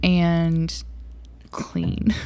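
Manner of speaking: talking while hitting the table; thumping the table while speaking; banging the desk. Real, not acted. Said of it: "Quit hitting the table".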